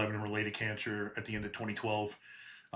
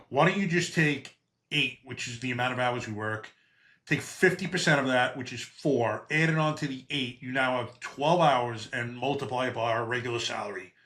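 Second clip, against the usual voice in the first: exasperated explaining; 3 semitones higher, 4 dB louder than usual. Retold or imitated. Retelling schooling his boss on overtime math, exasperated and loud.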